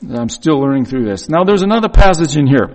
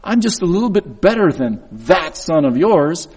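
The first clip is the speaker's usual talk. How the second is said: a touch higher, preening tone; mock the smug older son; smug brother, lightly voiced; self-righteous; 4 semitones higher than usual. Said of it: "he gets very self-righteous".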